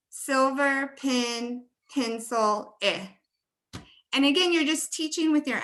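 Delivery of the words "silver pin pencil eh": "Silver pin, pencil" slowly, with the short i vowel in "pencil"; husband's version. Retold or imitated. Teacher imitating her husband's "pencil" with an i vowel. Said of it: "So he would say".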